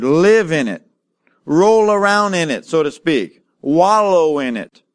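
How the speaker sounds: stack the phrases and press each one; preacher driving home the word live; preaching build. Acted.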